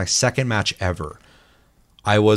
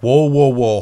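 mock alarmed protest; 5 semitones higher, 10 dB louder, slower than usual. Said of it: "Josh is like".

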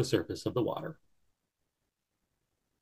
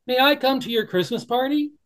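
high, small pleading bunny; little bunny voice; 13 semitones higher, 5 dB louder than usual. Acted. Barrington asks the Beaver to come, high and hopeful. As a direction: ask shyly as a tiny bunny.

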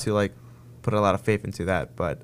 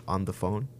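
dramatic ghost-story whisper; 2 semitones lower, 6 dB quieter than usual. Real, not acted. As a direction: whisper the end of the line. Spooky climax of ghost story.

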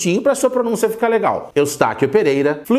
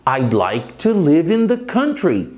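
slow; slower than usual. Shown as a demonstration. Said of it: "Olha um exemplo".

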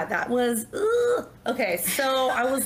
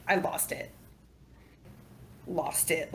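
softer, near whisper, lost it; quiet; 4 semitones lower, 8 dB quieter, slower than usual. Real, not acted. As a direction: let it drop to a hush. Remembering breaking down.

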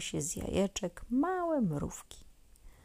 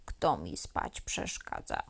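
much lower, gruff grumble of a woken giant beetle; angry grumbling beetle. A narrator's reading. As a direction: growl it like a big bug woken from sleep. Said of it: "mruczał rozgniewany". (niski, gniewny pomruk chrząszcza)

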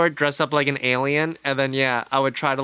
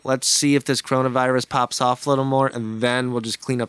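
alien voice. Retold or imitated. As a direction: play a smug watching alien. Voicing aliens watching Earth.

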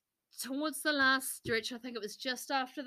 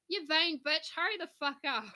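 impatient yell; 6 semitones higher, 4 dB louder than usual. Retold or imitated.

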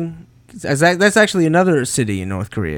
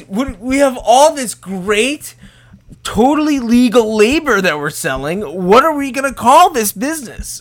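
salesman voice; 6 semitones higher than usual. Pretend. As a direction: pitch it like a salesman. Pitching their fake business.

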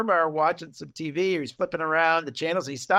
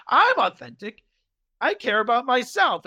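mock indignant; 6 semitones higher than usual. Acted indignant comeback in retelling.

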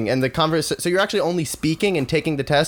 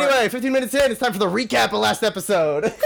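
laughing; 5 semitones higher than usual. Real, not acted. Podcast host moving to recap.

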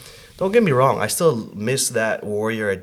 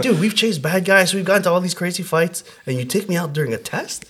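much higher, indignant rant at God; pissed at God; 8 semitones higher than usual. Retold or imitated. Cursing God from the hospital bed, indignant. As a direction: rail at God for betrayal. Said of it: "I was so pissed at God".

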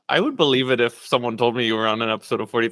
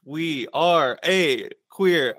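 staccato; 2 semitones higher, 3 dB louder, slower than usual. Shown as a demonstration. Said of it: "I'm just doing staccato".

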